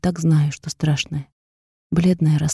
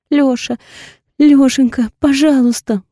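higher, louder, tearful begging; 6 semitones higher, 4 dB louder than usual. A narrator's reading. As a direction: she begs him not to leave. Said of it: "прошу я". (умоляюще)

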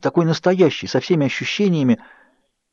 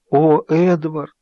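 slow, higher, aching cry of his name; grief-stricken plea; 5 semitones higher, much slower than usual. A narrator's reading. Bella to Edward, too grieved to tell, aching.

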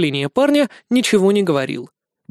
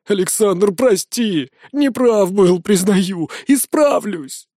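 pleading; 3 semitones higher, slower than usual. Acted. Pleading for forgiveness.

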